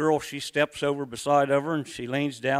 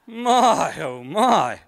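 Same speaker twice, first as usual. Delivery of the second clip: high, loud mock swoon; hammed-up swoon; 7 semitones higher, 7 dB louder, much slower than usual. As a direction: overplay the swoon, voice way up. Exaggerated swoon after the fart.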